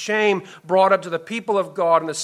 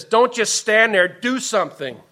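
mildly raised, impatient urging; mock urging; 5 semitones higher, 4 dB louder than usual. The world telling believers to act, mildly impatient urging. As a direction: push it out louder, then ease off.

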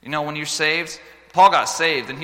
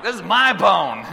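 mock dad claiming; 7 semitones higher, 10 dB louder, slower than usual.

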